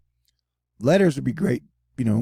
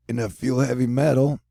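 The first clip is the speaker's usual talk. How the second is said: usual speaking voice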